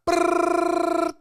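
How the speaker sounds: high rattling gunfire noise, slowed; imitated gunfire brrrr. Mimicking movie gunfire for the listener. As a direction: rattle out a machine-gun burst with the mouth. Loud action scene noise.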